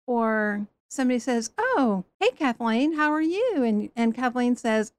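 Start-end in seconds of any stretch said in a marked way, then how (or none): 1.6-3.6 higher, bright mock-friendly hello; cheery churchgoer greeting. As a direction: play the overly chipper church friend.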